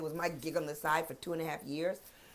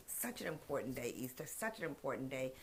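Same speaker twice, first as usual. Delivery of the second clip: softer, lower Such an important day; soft repeat; 5 semitones lower, 12 dB quieter than usual. Shown as a demonstration. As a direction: let Such an important day fall quiet and low. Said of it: "repeats it softer".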